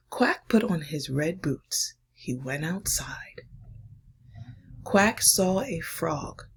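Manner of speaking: put-on hushed, slowed reading for children; story reading. Reads picture book aloud.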